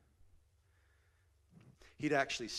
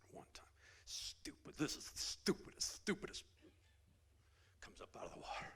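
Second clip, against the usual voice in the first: whisper; 6 semitones higher, 4 dB quieter than usual. Retold or imitated. Naaman's grumbling under water.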